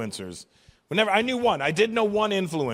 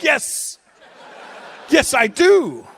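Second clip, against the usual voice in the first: higher, much louder, gushing agreement with a laugh; eager yes; 10 semitones higher, 9 dB louder, much slower than usual. Retold or imitated. Comic agreeing with an old woman, loud and gleeful. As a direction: belt out a delighted yes yes. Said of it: "And I'm like".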